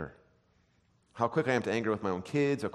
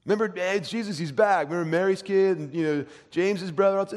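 high-pitched, gushing neighbour; hammed-up excited welcome; hometown crowd excitement; 7 semitones higher, 3 dB louder than usual. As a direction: play a townsperson thrilled at a local's return. Townspeople greet returning Jesus.

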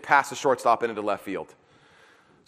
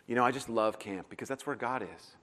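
put-on gushing teen; 6 semitones lower, 13 dB quieter than usual. Teens quoted gushing about camp.

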